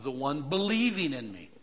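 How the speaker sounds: believing stressed and falling; literal reading. Shown as a demonstration. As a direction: lean on believing. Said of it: "and then he says what?".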